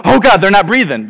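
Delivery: loud, hammed-up parental alarm; mock panic. New parents hearing their baby whimper, acted panic. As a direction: imitate a jumpy new parent.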